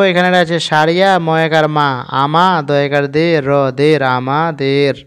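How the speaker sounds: রামাদের built up piece by piece, the last part slow; slow spelling. Shown as a demonstration. Teacher slowly spells রামাদের for the learners. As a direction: spell the letters out, then draw out রামাদের. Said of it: "আবার এখানে দেখো".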